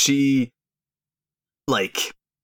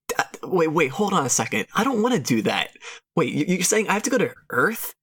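put-on higher, earnest protesting kid voice; wholesome 1950s kid; 4 semitones higher than usual. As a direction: plead like an innocent 1950s boy. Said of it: "Aw, jeepers, mister".

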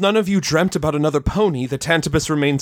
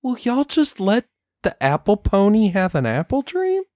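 mock southern accent; 8 semitones higher than usual. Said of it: "southern accent".

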